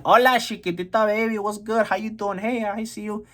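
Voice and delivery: high-pitched cocky catcall; flirty nobleman. Acted. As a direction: toss out greetings like a high-voiced flirt. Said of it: "He basically went in on horseback".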